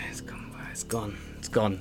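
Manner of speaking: very soft muttering to oneself; forgetful whisper. Acted. Tiefling loses her memory of the demon, whispering. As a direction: whisper it as the thought slips away.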